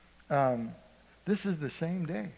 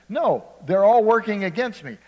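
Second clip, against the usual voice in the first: Jacob's grumble; 5 semitones higher, 8 dB louder than usual. Retold or imitated. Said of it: "That's what he thought".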